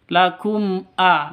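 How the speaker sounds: LAKUM A with clear m straight into the a; joined directly. Shown as a demonstration. Teacher showing clear mim before hamzah, joined. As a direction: say LAKUM A connected, no hum.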